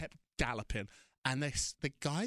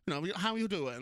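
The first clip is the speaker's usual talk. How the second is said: flippant Wendy; 4 semitones higher than usual. Retold or imitated. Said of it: "really flippantly, not, not aggressively".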